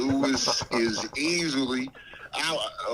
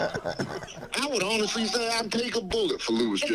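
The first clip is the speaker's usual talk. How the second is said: Dave Chappelle voice; 5 semitones higher than usual. Pretend. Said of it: "You sound just like him".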